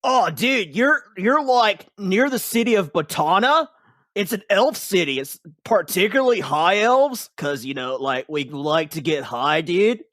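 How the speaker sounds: high, loud, lazy stoner elf voice. Acted. Elf explaining to the fallen hero, high stoner voice.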